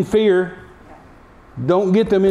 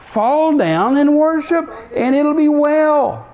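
king's decree; 7 semitones higher than usual. Retold or imitated. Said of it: "He says".

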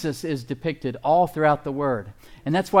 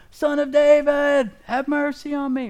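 much higher and louder pleading call; louder desperate cry; 12 semitones higher, 5 dB louder than usual. Retold or imitated. Blind beggar yelling louder over the crowd, desperate high cry. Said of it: "He started yelling louder".

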